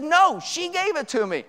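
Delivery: high, slow protest; retold yell. Younger thief protesting to the older one, mock yelling. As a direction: imitate an insistent arguer without full volume. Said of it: "they start yelling".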